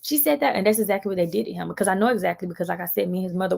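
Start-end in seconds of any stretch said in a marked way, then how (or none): 0.0-0.5 mock tattling. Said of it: "I'm like".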